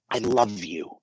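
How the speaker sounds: soft, warm I love you; soft loving "I love you"; tender I love you. Shown as a demonstration. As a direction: say I love you gently, meaning it. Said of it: "I can say".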